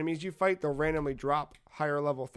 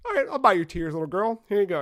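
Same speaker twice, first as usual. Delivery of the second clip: higher, louder, mock giving-in to a child; retold humouring; 4 semitones higher, 5 dB louder than usual. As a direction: humour a little girl, acted lightly.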